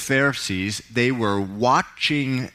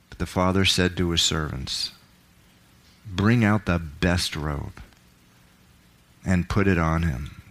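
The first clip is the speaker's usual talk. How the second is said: dramatic Bible reading, voicing the characters; scripture reading. Pastor to congregation, dramatic scripture reading. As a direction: read the parable with feeling, rising for the son's pleas. Preacher reads the prodigal son.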